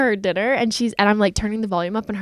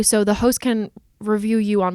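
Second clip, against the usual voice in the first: ordinary delivery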